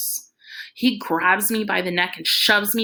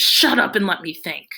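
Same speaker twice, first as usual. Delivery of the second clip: sharp order; 5 dB louder than usual. Acted. Father silences Iggy.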